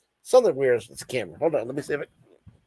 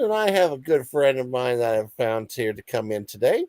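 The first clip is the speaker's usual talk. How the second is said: talk show announcer. Acted. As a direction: bring on the guest like a show host. Host announces interview guest.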